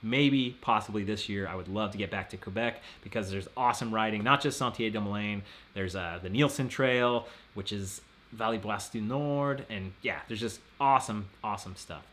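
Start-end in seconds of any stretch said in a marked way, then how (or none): 4.2-9.6 French accent. Shown as a demonstration. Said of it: "Don't you love my French accent?".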